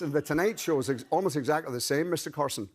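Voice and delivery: Northern Irish demonstration; Belfast accent. Shown as a demonstration. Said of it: "jump across to Belfast".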